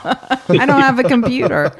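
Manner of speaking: imitating Brandon. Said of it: "your portrayal of him cracked me up".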